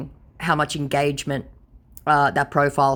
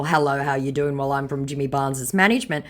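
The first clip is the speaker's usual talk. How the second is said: "Hello, how you doing?" rattled off fast and flat, "management" thrown away; deadpan quick mockery; flat dismissive recital. Shown as a demonstration. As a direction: read it back bored and quick. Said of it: "in response to the whole".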